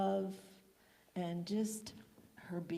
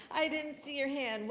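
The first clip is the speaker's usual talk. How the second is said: surprised greeting; 5 semitones higher, 5 dB louder, slower than usual. Real, not acted. Surprised to spot a visitor.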